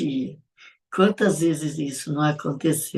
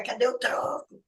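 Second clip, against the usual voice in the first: scolding mother; 5 semitones higher, slower than usual. Retold or imitated. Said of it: "lembra das frases que a mãe dizia".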